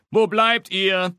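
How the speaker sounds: pressing. A narrator's reading. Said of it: "drängt Papa".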